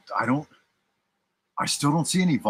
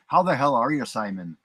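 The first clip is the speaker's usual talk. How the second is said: put-on Irish accent. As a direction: greet him in a playful mock Irish accent. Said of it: "I'll put on my best Irish accent".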